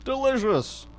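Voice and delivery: high, relishing creepy visitor. Acted. Visitor taunting the armed homeowner, high creepy relish. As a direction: savour the threat like a predator.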